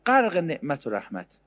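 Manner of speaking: slow, drawn-out pious phrase; lightly mocking pious reply; mock pious friend. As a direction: draw it out like a sanctimonious friend. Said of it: "به قول دوستی ما داریم میگه".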